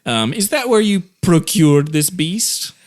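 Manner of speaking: lightly hammed-up rich man's posh accent; offended posh gentleman, accent turned way up. Specialist sniffs at the adventurer in a hammed-up posh accent. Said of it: "turned the accent up to a hundred".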